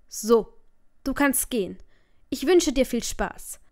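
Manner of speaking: a thin yet stern father's voice, held back; father saying a cold goodbye, thin and serious; thin but serious. Acted. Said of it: "Seine Stimme wirkte dünn und doch ernst".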